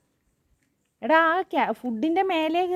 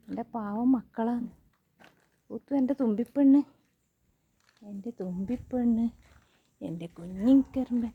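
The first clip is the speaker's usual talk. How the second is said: tender; 3 semitones lower than usual. Real, not acted. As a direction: hold them close with your voice. Tender words to pets.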